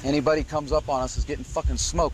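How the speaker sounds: usual speaking voice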